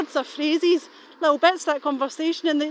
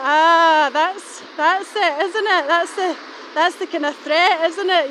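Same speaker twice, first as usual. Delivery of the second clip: long louder "Ah", then livelier; retold sudden realisation; 2 semitones higher, 4 dB louder, slower than usual. Speaker retelling the moment the threat made sense, dawning realisation. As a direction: re-enact the penny dropping.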